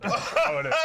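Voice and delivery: high, loud imitated player's cry; mock fired-up reply. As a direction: answer the coach's scream at full pitch. Player answers screaming coach, acted.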